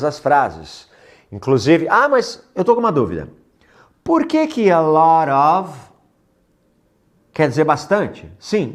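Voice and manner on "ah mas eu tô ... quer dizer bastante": lightly voiced curious student, higher; pergunta de aluno. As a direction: ask like a puzzled student. (aluno curioso, voz levemente mais aguda)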